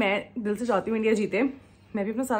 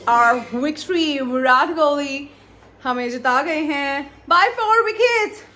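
louder, slow triumphant cheer; excited cheer; 4 semitones higher, 5 dB louder, much slower than usual. Real, not acted. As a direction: announce the win with joy. Celebrating India's win.

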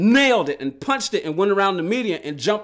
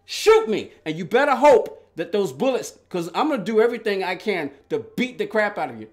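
angry dare. Retold or imitated. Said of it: "I was like".

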